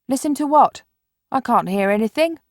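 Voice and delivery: talking while chewing chicken; mouth full. Acted. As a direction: speak round a mouthful. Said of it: "his mouth full of chicken".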